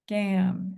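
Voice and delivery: Gam with a full short A, as spelled; spelling pronunciation. Shown as a demonstration. Teacher giving the third syllable to spell, spelling pronunciation. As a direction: say Gam with the vowel of "ham". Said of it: "I said gam".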